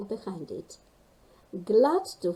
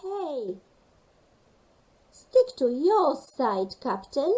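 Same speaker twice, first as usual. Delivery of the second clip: laughing; 4 semitones higher, 5 dB louder than usual. Acted. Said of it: "laughed Rosie".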